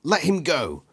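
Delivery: high, stammered yell. Acted. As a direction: yell as you charge in.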